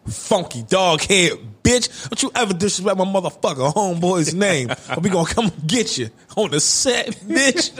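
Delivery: mock tirade, punching the final insult; a famous rapper. Imitating rapper cursing Gayle out, hammed-up threat. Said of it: "He cursed Gayle out".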